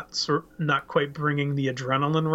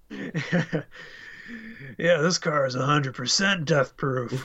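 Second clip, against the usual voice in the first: a lightly voiced movie villain, dropping to a whisper at the end; movie villain quote. Retelling the Death Proof line to his co-host, mildly voiced then whispered. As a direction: quote the killer, sinking to a hushed whisper on the last line.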